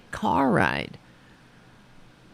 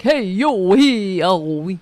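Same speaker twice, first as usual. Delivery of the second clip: put-on Bensonhurst accent; 3 dB louder, slower than usual. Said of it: "I'm not like".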